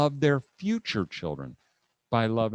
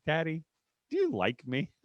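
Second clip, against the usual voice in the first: put-on soft, small child's question; imitated little daughter; 4 semitones higher, 4 dB quieter than usual. Little daughter on the stool asking Dad, softly imitated. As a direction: lightly voice a timid little girl. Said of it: "I can hear her voice in my head".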